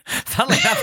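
high laugh breaking into the words; amused laugh before the remark. Real, not acted. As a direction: chuckle out the aside. Laughs at movie title.

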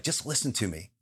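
gentle God voice. Retold or imitated. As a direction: say it softly as God would. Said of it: "God was like".

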